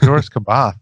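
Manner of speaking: "Joruus C'baoth" as JOR-us kuh-BOTH, firm; own pronunciation. Shown as a demonstration. Fan showing how he says it in his head, JOR-us kuh-BOTH pronunciation. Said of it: "That's the way I say it".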